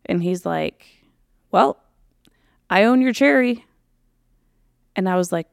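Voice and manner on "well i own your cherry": proudly crowing, higher and louder; mock smug boast. Guy bragging to the woman who trusted him, smug. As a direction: imitate his gloating, pitched up and louder. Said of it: "he was so proud of himself".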